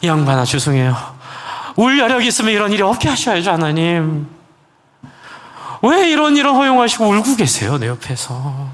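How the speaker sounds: high-pitched reproach to God, dropping at the end; indignant protest. Retold or imitated. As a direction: retell an aggrieved complaint, pitch climbing. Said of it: "막 부하가 났어요". (부아가 나서 원망하듯 따지는 말투로)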